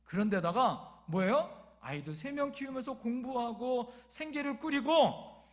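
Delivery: ordinary talk, nothing marked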